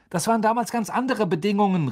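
loud and insistent; exclaiming. A narrator's reading. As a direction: cry out, eyes bulging. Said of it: "rief Wood".

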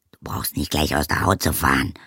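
sharply. Acted. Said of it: "sagte Oma Wetterwachs scharf".

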